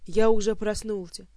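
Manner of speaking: loud desperate yell; half-drowned Kantor shouting he's awake. A narrator's reading. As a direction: shout it out through the water. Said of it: "закричал тот".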